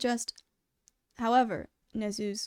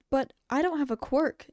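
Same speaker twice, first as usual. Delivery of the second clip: protesting; 4 semitones higher, 4 dB louder than usual. A narrator's reading. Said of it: "Izuku protested".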